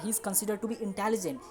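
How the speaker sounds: slow English examples; slow model sentences. Shown as a demonstration. Teacher giving examples to students. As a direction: read them slowly.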